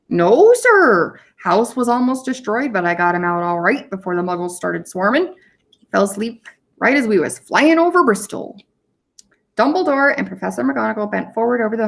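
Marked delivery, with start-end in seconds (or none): 0.1-8.6 big rough giant, lightly voiced; Hagrid voice. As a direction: bluff giant gamekeeper reporting in.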